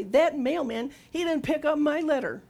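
hammed-up petulant whine about the mailman; mock whine. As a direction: whine like a cheated child. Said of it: "cry and whine and stamp my feet".

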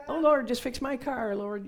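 exaggerated whiny prayer; mock pleading prayer. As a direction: plead dramatically to God.

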